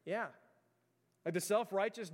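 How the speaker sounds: normal talking voice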